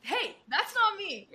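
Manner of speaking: high, slow objection; mock protest. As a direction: protest being called that. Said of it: "And he goes".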